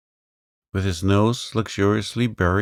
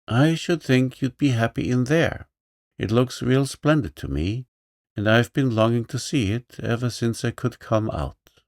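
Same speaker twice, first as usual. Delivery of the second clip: higher-pitched, lightly voiced lame boy; meek little boy, a bit higher; young boy; 4 semitones higher than usual. Johnny's lines.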